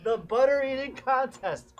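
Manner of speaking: slow, loud, showy announcer voice as the butter-contest judge; pompous fair judge. Pretend. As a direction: proclaim it like a self-important fair official. Judge character at state fair.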